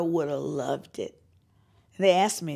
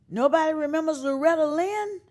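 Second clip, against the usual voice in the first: outraged disbelief; 10 semitones higher, 5 dB louder than usual. Retold or imitated. Outraged reply to label.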